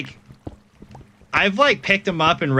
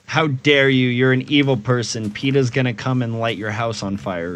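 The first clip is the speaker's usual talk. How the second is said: mock outraged scold; 3 semitones higher than usual. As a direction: scold as a pretend offended activist.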